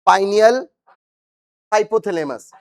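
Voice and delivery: each gland name drawn out slowly for repeating; slow, separated words for the class to repeat; slow recitation. Shown as a demonstration. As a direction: say पिट्यूटरी, पाइनियल, हाइपोथैलेमस slowly so the class can echo. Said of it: "मेरे साथ धीरे-धीरे बोलिए".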